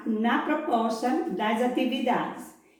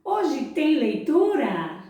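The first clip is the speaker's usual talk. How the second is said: circus ringmaster call; 4 semitones higher, slower than usual. Shown as a demonstration. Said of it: "E eu começo com a primeira pergunta".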